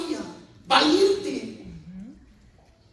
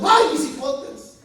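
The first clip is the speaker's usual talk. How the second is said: slow, drawn-out ghostly lament on "Ay, mis hipotes"; llorona wail; slower than usual. Retold or imitated. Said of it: "cada país tiene su llorona". (lamento lento de la llorona: "Ay, mis hipotes")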